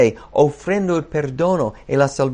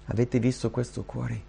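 normal talking voice

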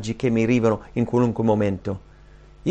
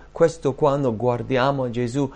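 ordinary talk

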